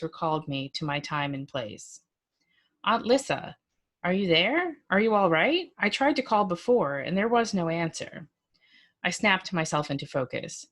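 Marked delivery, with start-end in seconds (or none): 2.8-8.3 a hint of the anxious young man calling; worried nephew on the phone.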